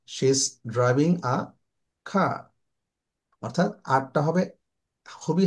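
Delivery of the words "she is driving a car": car said with a very faint final r; light final r. Shown as a demonstration. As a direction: end car with the r almost dropped. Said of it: "in English we should say car". (car-এর আর খুব হালকা)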